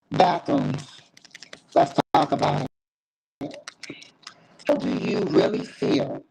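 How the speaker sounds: choppy cutting-out line; words dropping out on a bad connection; audio breaking up. Real, not acted. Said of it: "It sound like you was breaking up".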